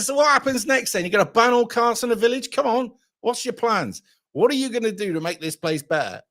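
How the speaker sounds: grilling the canvassers with mocking questions; mock challenging grilling. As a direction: goad them, fading toward the end.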